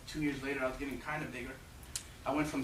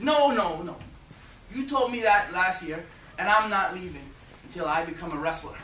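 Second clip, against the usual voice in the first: put-on defiant kid; 5 dB louder than usual. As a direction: stand your ground, shouting up at him. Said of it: "I said".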